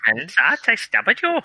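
high, loud hammed-up vengeance; dramatic villain. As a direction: declaim it like a vengeful captain. Quote continued, loud high.

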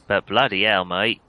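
Cornish slipping into Australian; Australian-tinged farmer voice; accidental Australian accent. Acted. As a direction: let the accent drift Australian. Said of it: "I've gone a bit Australian there".

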